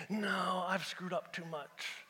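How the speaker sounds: low, soft, dejected self-doubt; doubter's thought. Acted. Preacher voicing a listener's thought, low and defeated. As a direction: sink into a small, defeated voice. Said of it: "You're thinking".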